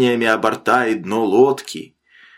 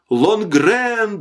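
high, drawn-out call for help; distant cry; 8 semitones higher than usual. A narrator's reading. Drowning man's cry reaches the sailor from afar, distant desperate call. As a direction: call as if from far out at sea. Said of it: "донеслось к нему глухо".

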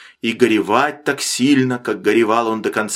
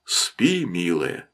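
soft, low soothing voice; tender hush; 7 semitones lower, 6 dB quieter, much slower than usual. A narrator's reading. Father tucks his little daughter in, tender hush. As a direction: lull a child back to sleep.

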